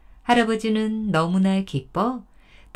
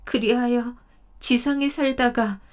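mild choked voice, rising toward the end; choked-up deer; 4 semitones higher than usual. Acted. 사슴이 할아버지에게 사연을 털어놓으며 목멘 소리로. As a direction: tell the story with a lump in the throat. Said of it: "목맨 소리로 말했습니다".

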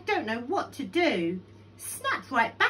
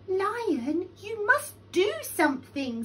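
high, louder little pleading voice; urgent tiny flea; 10 semitones higher, 5 dB louder than usual. A narrator's reading. Tiny Flea urging Lion to act, high and insistent. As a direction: urge him in a high voice.

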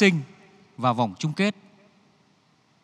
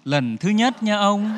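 chậm rãi đe dọa; 5 semitones higher, slower than usual. Acted. Vợ lạnh lùng đáp chồng.

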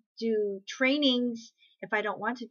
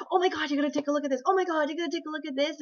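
mock hard-sell enthusiasm, rushing the words; hammed-up gushing pitch; gushing pushy recruiter; 5 semitones higher, faster than usual.

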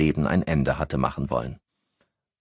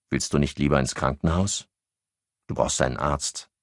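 worried. A narrator's reading. Henri urges shivering Annette to see a doctor, worried. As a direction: gently urge her to see a doctor. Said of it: "sagte Henri besorgt".

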